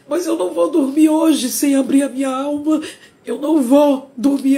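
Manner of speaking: tearful. Real, not acted. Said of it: "muito emocionada".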